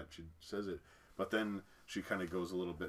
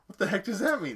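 laughing incredulous; 13 semitones higher, 13 dB louder than usual. Retold or imitated. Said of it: "I'm like".

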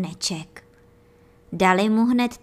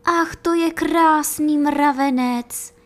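put-on high, louder, slow boy's cry of delight; delighted exclamation; 6 semitones higher, 5 dB louder than usual. Boy admiring the ant on the anthill, high and thrilled. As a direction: gush over the lovely ant. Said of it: "zvolal hoch".

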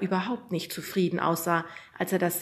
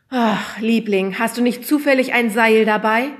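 sheepish request; 4 semitones higher, 10 dB louder than usual. A narrator's reading. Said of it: "fragte unser Lehrer seine Frau".

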